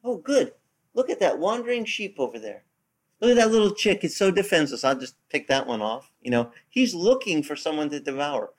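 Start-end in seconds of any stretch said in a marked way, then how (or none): 0.0-6.1 higher, sly mock-gloating predator; the devil gloating. The devil on the prowl eyeing a wandering sheep, sly and higher. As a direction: relish spotting easy prey. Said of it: "He's like".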